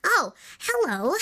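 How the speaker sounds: nasal character voice; nasally voice. Acted. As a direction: pinch it through the nose. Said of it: "it was a nasally voice".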